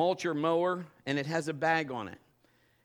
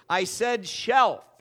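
the Lord's voice; 7 semitones higher, 10 dB louder, much slower than usual. Retold or imitated.

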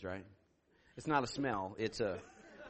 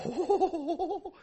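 high drawn-out "oh"; mock inner wail; 10 semitones higher than usual. Pastor hiding his urge to run, high mock wail. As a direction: let out a high, comic inner howl. Acting out inner reaction to request.

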